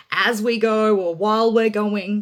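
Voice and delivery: loud, slowed quote leaning on "As" and "While"; put-on emphasis. Quoting how we overstress go, put-on emphasis. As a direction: overemphasise "As" and "While" like a slogan. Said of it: "we might say things like".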